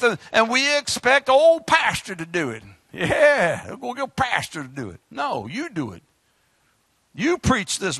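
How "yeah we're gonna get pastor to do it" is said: soft, rushed mock of a lazy member. Preacher mimicking church folk who leave the work to the pastor, mumbled fast. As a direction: toss it off like you couldn't care less.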